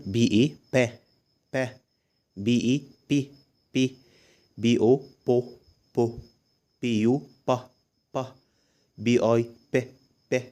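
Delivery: name letters like "بي او", then sound "بو", repeated after a pause; letter blending drill. Shown as a demonstration. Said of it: "اسمع معايا بقى فايدتهم ايه مع الحروف". (تهجي "بي اي" ثم نطق "با")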